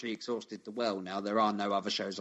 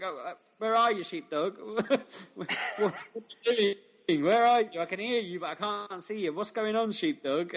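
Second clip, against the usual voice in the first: much higher, squeaky and puzzled; silly confused voice; 11 semitones higher than usual. Pretend. Imagined friend searching for sheepdog, squeaky puzzled. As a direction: play the lost sidekick in a high squeak.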